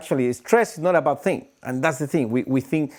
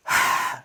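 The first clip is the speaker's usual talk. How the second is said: demo sigh. Shown as a demonstration. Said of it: "Very short inhale".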